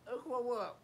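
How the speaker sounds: talking with a burning mouth; mouth burning from spicy food. Real, not acted. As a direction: speak through the burning heat. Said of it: "My mouth is burning".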